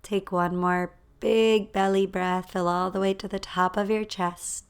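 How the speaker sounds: calm guidance with long pauses to breathe; guided breathing. Real, not acted. Leads a breathing exercise.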